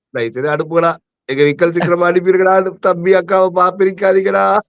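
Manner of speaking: hammed-up wailing plea, held on one note; mock pleading. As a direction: beg like a melodrama brother. Mock tearful plea, siblings parted. (கெஞ்சிப் புலம்புவது போல)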